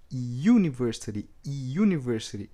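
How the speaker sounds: "university" begun with a y-glide, iunivɛɾsiti; English yoo sound. Shown as a demonstration. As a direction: start with a "you" sound. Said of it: "na pronúncia dele no inglês é". ("university" começando com som de "iu")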